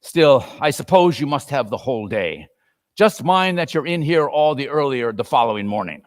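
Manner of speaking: put-on a sour old employer grumbling; grudging miser. Scrooge grumbles at his clerk about Christmas, sour. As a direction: begrudge every word of it.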